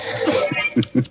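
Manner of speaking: a short, amused horror-host laugh; host's macabre chuckle. Acted. Horror host joking about a skeleton out for air, macabre chuckle. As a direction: chuckle at your own skeleton joke.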